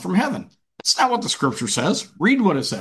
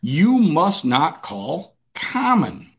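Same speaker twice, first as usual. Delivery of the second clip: slow, measured and grave; a hint of a solemn voice from heaven; solemn divine voice; much slower than usual. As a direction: lay down the words slowly as a holy command. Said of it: "He said".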